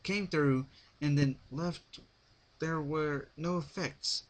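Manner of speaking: spelling it out, getting irritated; slowed, mildly annoyed questioning. A narrator's reading. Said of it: "starting to getting annoyed".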